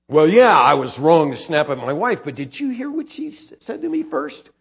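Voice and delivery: whiny excuse-making, pointing the finger; a defensive husband blaming his wife; mock self-justifying.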